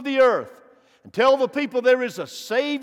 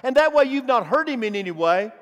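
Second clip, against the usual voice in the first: full-force preaching; faster than usual. Acted. Preacher stirring the congregation, rising full-force preaching. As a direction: build it up and drive it home.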